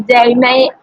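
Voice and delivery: rough attempt at an Australian accent. Shown as a demonstration. Student mimicking Australians' famous phrase, shaky-skilled Australian accent. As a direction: mimic an Aussie catchphrase, not very well. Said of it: "the Australian people ... speak something like".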